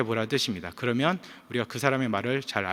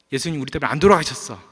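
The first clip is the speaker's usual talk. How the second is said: upset; 3 semitones higher, 4 dB louder than usual. Retold or imitated. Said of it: "울분을 터뜨리면서".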